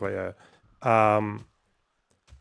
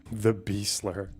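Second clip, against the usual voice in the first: mocking; 6 dB quieter, much slower than usual. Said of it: "You don't call it the B slur".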